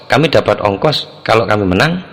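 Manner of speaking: "kami dapat ongkos kalau kami menang" asked, rising at the end; question tune. Shown as a demonstration. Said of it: "Itu jadi tanyaan".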